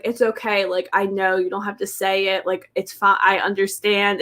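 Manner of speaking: soft, understanding, retold gently; gentle reassurance. Connor comforting a crying Katie, soft and reassuring. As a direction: quietly comfort her, lightly voiced. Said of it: "he was like".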